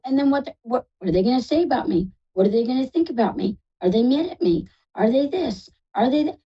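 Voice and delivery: quick run of worried questions, pitch lifting; mildly acted spiral of anxious second-guessing; anxious worrying. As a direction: voice someone fretting over what others think. Voicing client's anxious spiralling worries.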